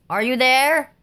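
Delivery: high, searching question; crying out. A narrator's reading. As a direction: call down to someone missing. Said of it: "cried Dennis".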